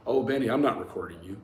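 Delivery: lightly slurred imitation of a drunk. Mocking the drunk friend recording the call, lightly slurred. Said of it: "in his best slurred voice".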